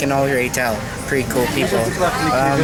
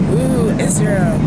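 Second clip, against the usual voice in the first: excited cheer; 7 semitones higher, 4 dB louder, slower than usual. Real, not acted. About to land in Israel.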